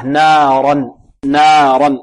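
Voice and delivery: "نارا" with a light "naa" and dark "ran"; held "naa" in "نارا", full-mouthed ra; thin nun, heavy ra. Shown as a demonstration. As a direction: open the alif thinly, then darken the r of "نارا". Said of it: "مرقة، والراء مفخمة".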